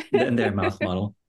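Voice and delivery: joking through a laugh; a laughing quip. Real, not acted. Joke after laughter.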